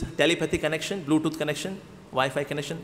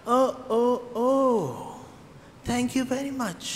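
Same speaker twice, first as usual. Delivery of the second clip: higher, softer awed thanks; awed Ravana; 4 semitones higher, 4 dB quieter, much slower than usual. Acted. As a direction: gasp out the gratitude softly. Ravana grateful realization.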